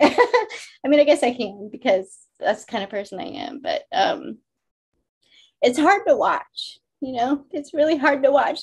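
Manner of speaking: speaking through tears. Speaker goes on after someone says they'll make them cry, crying while talking. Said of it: "I can't believe I'm crying".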